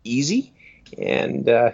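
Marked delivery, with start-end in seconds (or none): 0.0-0.5 Easy impression. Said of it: "a bit of Easy from the Comfort Zone".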